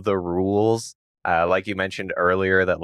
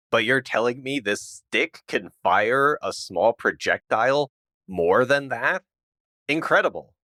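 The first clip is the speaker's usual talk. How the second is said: mock amazement; 4 semitones higher than usual. Mocking naive amazement.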